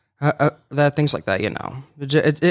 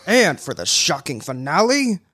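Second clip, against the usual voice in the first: villain voice; slower than usual. Shown as a demonstration. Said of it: "give us a villain".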